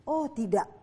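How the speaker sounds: plain reading voice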